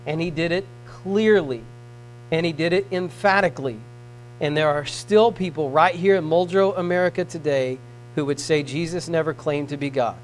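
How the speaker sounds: hushed preaching. Acted. Preacher quietly pressing the point on listeners.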